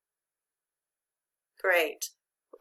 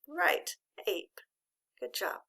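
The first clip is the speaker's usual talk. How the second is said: whisper; 5 semitones higher, 5 dB quieter, slower than usual. Real, not acted. Teacher whispers the answer.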